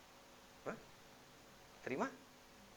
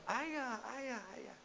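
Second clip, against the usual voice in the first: daughter calling; 7 semitones higher, 3 dB quieter, much slower than usual. Retold or imitated. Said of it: "Sampai Fatimah bilang".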